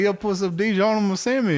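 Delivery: mock English accent. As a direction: order like a cartoon Englishman. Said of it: "my English interpretation".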